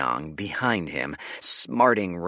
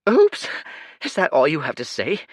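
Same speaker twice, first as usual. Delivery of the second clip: indignant; 10 semitones higher, 9 dB louder than usual. Acted. Leo indignant.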